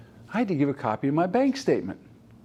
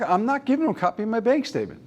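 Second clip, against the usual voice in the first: a touch of exasperated daughter, higher and fast; daughter repeating; 6 semitones higher, faster than usual. Retold or imitated. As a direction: rattle off dad's refusal, lightly mocking. Daughter repeats dad's refusal.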